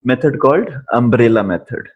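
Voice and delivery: very slow, each word spaced out; slowed-down dictation of a term. Shown as a demonstration. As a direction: spell out the name slowly for notes. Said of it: "we use this".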